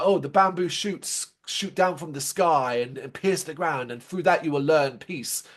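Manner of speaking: lightly voiced mystic master riddle; a hint of a solemn mystic teacher; mock kung fu master. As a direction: imitate a sage speaking in riddles, understated. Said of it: "but he talks like that".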